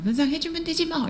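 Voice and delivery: imitating an annoyed elder, pitched high; mock indignant retort. Elder snapping back when told to pay for damage, mock indignant. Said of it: "이러면서 화내실 거예요".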